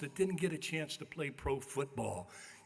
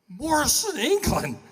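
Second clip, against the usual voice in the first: dread reveal; 11 semitones higher, 13 dB louder, slower than usual. Retold or imitated. Dreading the huge opponent.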